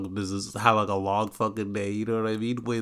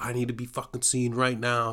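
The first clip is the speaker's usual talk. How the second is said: mock screaming, higher pitch; 2 semitones higher than usual. Retelling what a girl said while making a scene, imitating someone screaming. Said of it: "and screaming".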